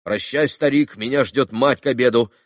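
rapid patter. A narrator's reading. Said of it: "проговорил он скороговоркой".

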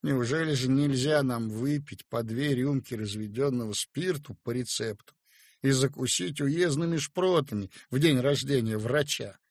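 plain reading voice

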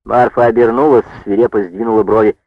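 usual speaking voice

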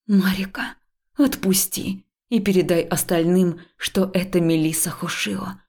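steady, controlled calm; mild forced calm; even voice. Acted. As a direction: keep the voice level despite fear. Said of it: "ровным голосом произнесла я".

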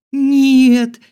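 high very loud "no"; terrified scream. Acted. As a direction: shriek in terror. About to be thrown off.

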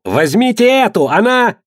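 high, urgent shout. A narrator's reading. Quintus spots Phryne and shouts to his men, high shout. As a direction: shout to the men to grab her. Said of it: "Квинт увидел её и закричал".

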